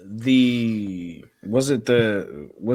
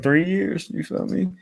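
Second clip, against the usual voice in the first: quoting Drew McIntyre; 4 semitones higher, 6 dB quieter than usual. Retold or imitated. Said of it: "Like Drew McIntyre said".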